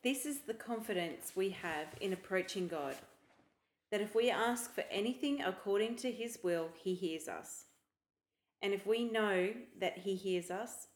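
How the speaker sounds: measured Bible reading; scripture reading. Shown as a demonstration. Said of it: "can you read one John five fourteen to fifteen".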